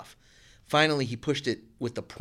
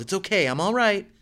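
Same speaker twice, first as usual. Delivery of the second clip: yelled; 9 semitones higher, 4 dB louder than usual. A narrator's reading. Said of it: "she yelled".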